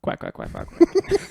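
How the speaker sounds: high, squeaky quacking; duck voice. Shown as a demonstration. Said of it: "my impression of a duck".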